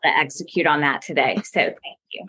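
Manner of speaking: mock-sincere gratitude; deadpan sarcastic thanks, as if truly honoured. Real, not acted. Guest thanks host for a supposed lifelong dream, sarcastic. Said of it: "if you can't hear her sarcasm, she's definitely being sarcastic".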